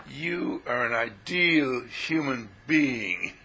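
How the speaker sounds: slow, grand, lofty declaration; solemn pronouncement. Pretend. Teacher proclaiming to the listener, slow and lofty. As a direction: intone it like a sacred truth. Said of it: "What are you talking like that for?".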